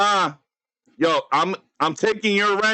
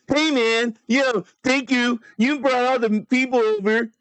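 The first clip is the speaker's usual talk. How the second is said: mock-grateful voice, pitched up; 4 semitones higher than usual. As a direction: lightly put on a high, gushing thank-you. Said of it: "the freaking D J's like".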